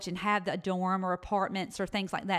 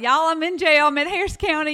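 higher and louder, bursting with news; excited announcement; 8 semitones higher, 10 dB louder than usual. Retold or imitated. Emailing friends from the jail kiosk, excited and loud. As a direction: shout it out like big news.

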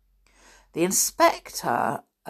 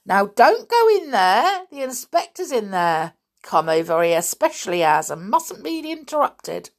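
high, loud urgent warning; shocked; 5 semitones higher, 5 dB louder than usual. A narrator's reading. Policeman calls to George at the door, shocked. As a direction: stop her in shocked alarm.

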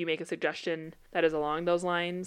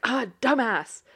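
raised, irritated imitation of a mom; mock exasperation; 4 semitones higher, 4 dB louder, slower than usual. Mom cursing a speeding driver, mildly exasperated. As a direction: toss it out at a bad driver.

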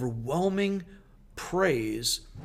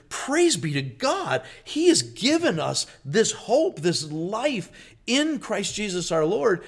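jubilant praise; 6 semitones higher, 4 dB louder than usual. Acted. Paul's joyful reaction quoted.

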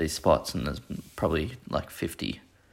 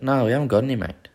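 curt angry booker; 6 semitones higher, 6 dB louder, faster than usual. Retold or imitated. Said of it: "He sounded mad off the bat".

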